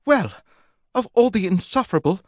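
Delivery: high, spluttering outrage; sputter, cut off mid-insult; indignant. Acted. Polly offended by Sir Aubrey, indignant. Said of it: "sparkled with indignation".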